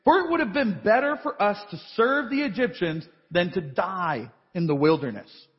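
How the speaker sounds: a hint of the whining Israelites, rising at the end; complaining Israelites. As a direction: read it as their complaint, lightly. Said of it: "the people of Israel cried out to Yahweh".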